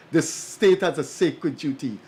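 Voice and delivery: "sacred" given deliberate emphasis; stress on sacred. Real, not acted. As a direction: repeat it firmly, weighting "sacred". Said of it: "I like to emphasize the word sacred".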